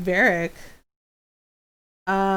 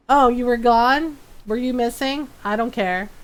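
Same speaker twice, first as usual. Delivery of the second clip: indifferent cat. Retold or imitated. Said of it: "Loki's reaction is".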